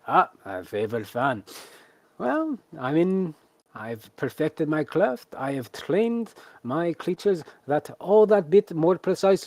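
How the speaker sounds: high, slow, theatrical ringmaster voice; grand showman. Acted. Tamer boasting about his trained creatures, theatrical showman voice.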